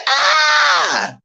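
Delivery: mock high scream; a short shrill horror-movie scream, imitated; imitating the victim's scream. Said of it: "She said".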